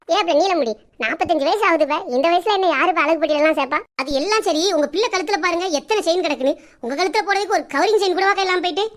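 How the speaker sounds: neighbour ribbing Ponnatha about having no chain; neighbour Neelamudi. Acted. Neighbour character voice.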